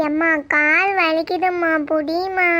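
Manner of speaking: slow, dragged-out whine; whiny complaint. Acted. Daughter telling mother her legs hurt, whining slowly. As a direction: stretch the words into a plea.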